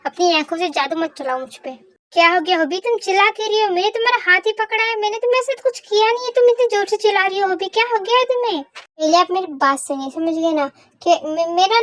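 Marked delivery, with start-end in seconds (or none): 2.1-8.6 baffled protest. Acted. Startled by her screaming, protests.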